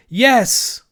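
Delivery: high, loud answering call; distant shout. A narrator's reading. Children answering from the tower, shouting. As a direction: call back as if from far away. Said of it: "shouted four faraway voices".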